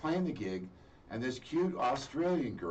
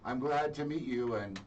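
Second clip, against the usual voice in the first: lightly voiced mom, higher-pitched; imitated approving mom; 6 semitones higher than usual. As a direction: send him off in a higher mom voice. Mom sends son off, retold.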